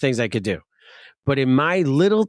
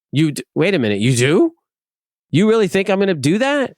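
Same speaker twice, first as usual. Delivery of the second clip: indignant; 4 semitones higher than usual. Retold or imitated. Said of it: "stupidly indignant".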